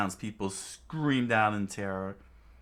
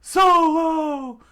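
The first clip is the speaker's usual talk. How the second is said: loud, high squeal of pain; high scream; 13 dB louder, much slower than usual. Acted. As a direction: shriek as you get clutched. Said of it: "made him scream".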